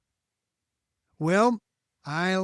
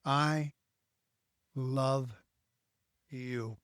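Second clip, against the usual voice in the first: soft, low "I love you", fading to almost nothing; tender "I love you"; 4 semitones lower, 6 dB quieter, much slower than usual. Real, not acted. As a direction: say it slowly and gently. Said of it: "I want to say to you listening".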